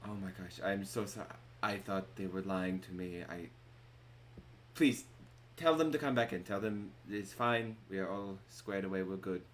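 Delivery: lightly voiced, halting apology; subdued, sorry barkeep in character; remorseful innkeeper. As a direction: backtrack contritely, with one urgent plea. Game master as remorseful innkeeper.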